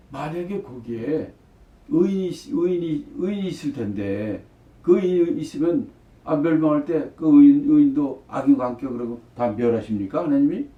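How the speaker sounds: arguing. Retold or imitated. Abraham questions God about the righteous, mildly acted arguing. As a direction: argue the case as a challenge. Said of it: "이렇게 따지는 거예요".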